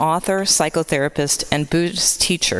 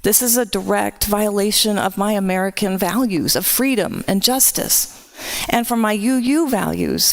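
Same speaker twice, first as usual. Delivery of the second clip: impassioned, pitched higher and rising; real anger; 4 semitones higher than usual. Real, not acted. Minister telling the congregation her values are violated, angry. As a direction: let the anger carry it upward. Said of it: "And frankly, I am angry".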